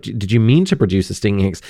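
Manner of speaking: fast offhand Snape quote; quick retold Snape line. Host recalling Snape's question to Harry, fast and offhand. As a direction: rattle off the question. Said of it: "when Snape says".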